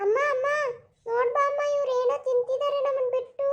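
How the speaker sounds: put-on high child voice calling out to amma; tattling child. Child calling mother to complain, high and whiny. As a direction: whine for mother's attention, pitched high.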